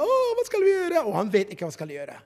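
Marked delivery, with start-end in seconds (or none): 0.0-1.0 high, panicked cry; panicked crowd. Acted. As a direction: cry out in despair at the sea. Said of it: "folket skriker".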